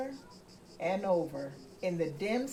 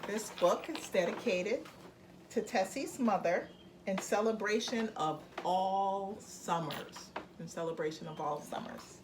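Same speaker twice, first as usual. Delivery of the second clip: calm read-aloud voice; story narration. A narrator's reading. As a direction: read it gently to a child. Parent reads dedication aloud.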